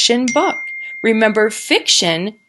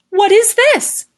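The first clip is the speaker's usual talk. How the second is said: wondering question; 10 semitones higher, 3 dB louder than usual. Shown as a demonstration. Teacher voicing Bird's wondering question for children. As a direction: wonder aloud like a curious bird. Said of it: "saying it like he's wondering because there's a question mark".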